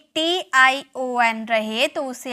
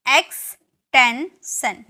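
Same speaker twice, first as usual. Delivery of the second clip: एक्सटेंशन stretched very slowly and louder; slow model word; 6 dB louder, much slower than usual. Shown as a demonstration. Teacher introduces next word, slow loud एक्सटेंशन. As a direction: announce एक्सटेंशन slowly and firmly. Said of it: "next है".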